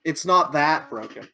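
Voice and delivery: dry, deadpan sarcasm; sarcastic. Acted. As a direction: say it like you don't mean it. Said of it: "To be clear, I'm being sarcastic".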